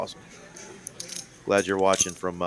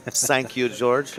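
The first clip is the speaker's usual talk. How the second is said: bad German accent, higher and louder; hammed-up German thank-you, sounded almost like sank you; terrible German accent; 4 semitones higher, 6 dB louder, much slower than usual. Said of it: "probably a terrible German accent".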